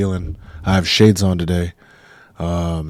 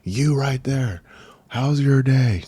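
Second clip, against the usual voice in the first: friendly host greeting; 6 semitones higher, slower than usual. Pretend. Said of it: "I'm like".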